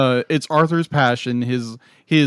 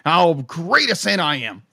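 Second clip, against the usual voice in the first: higher, theatrical proclamation; vain cry; 6 semitones higher, 4 dB louder than usual. Acted. Vain old Santa set on proving himself, grandiose. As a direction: declaim it with mock grandeur. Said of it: "my vanity cries out".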